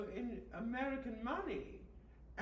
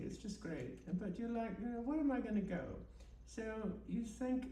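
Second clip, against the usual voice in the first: mock guided meditation. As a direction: lull them along like a spoof meditation tape. Host leads a mock guided meditation.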